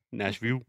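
Nashville said as "Nashvieu", with the final L turned to a vowel; imitating a learner. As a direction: drop the dark L in Nashville. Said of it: "sometimes I hear Nashville, like".

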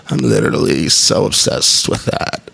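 slow, creaky, fried mock girl voice; mock vocal fry. Mocking Instagram stories with slow creaky vocal fry. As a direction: parody the Instagram stories, slowly. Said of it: "So now all I hear is".

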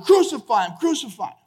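mild mock crowd yell, first cry strongest; crowd shouting. Preacher retelling the crowd's answer to Pilate, mild shout. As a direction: echo a shouting crowd, lightly. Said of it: "the Bible says they shouted".

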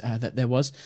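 ordinary talk, nothing marked

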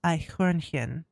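slow German pronunciation; careful, drawn-out German accent. Shown as a demonstration. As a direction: say it slowly in your best German accent. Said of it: "With your best German accent".

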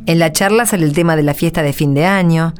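calm storyteller setting the scene; story narration. A narrator's reading. Narrator introducing the parents' meeting, calm storytelling. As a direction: narrate gently over the music.

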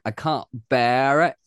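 mock West End British accent; imitated British accent. Podcast producer mimics two West End performers, British accent. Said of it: "saying their accents all the time".

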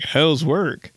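bright, chipper small-talk voice. Retold or imitated. Comedian mocking his own canned small-talk voice. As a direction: ask it like a soundboard clip. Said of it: "it's always that voice".

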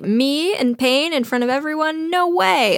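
rising, indignant mock denial; chest-out bravado. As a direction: puff up and scoff, pitch climbing. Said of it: "he sticks his chest out".

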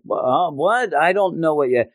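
high-pitched, startled stammer; high, flustered mock surprise; flustered denial. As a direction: act caught out and play dumb. Acting out Matt's startled denial.

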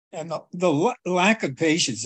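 talking while choking on food; choking on a pretzel. Real, not acted. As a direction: pretzel caught in the throat, pushing words out. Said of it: "I'm choking on a pretzel right now".

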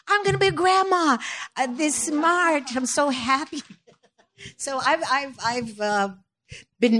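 a proud grandma-to-be announcing the news, overjoyed and high; thrilled and giddy. Real, not acted. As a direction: squeal it out like the best news ever. Sharing news of first grandchild.

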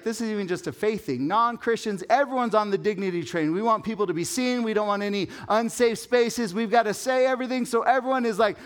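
high, loud, hammed-up voice of a business consultant; preacher mimics the consultant mocking the dignity trend, high and loud; mock Patrick Lencioni. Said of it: "And he's like".

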